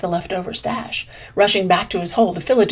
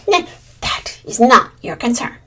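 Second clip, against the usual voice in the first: cool; 2 semitones higher, 3 dB louder than usual. Acted. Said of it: "replied Blue Jay coolly".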